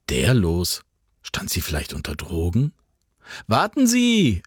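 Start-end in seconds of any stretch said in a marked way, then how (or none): 3.5-4.4 desperate call into the storm. Acted. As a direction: shout after her to stop. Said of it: "rief er".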